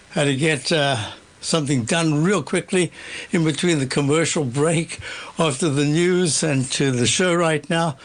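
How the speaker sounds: breathless, still catching breath. Real, not acted. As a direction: talk while winded from rushing. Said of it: "I'm a little out of breath".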